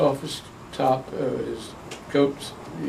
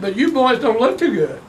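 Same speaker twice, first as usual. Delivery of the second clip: father's voice; 9 semitones higher, 4 dB louder than usual. Retold or imitated. Dad voiced in retold story.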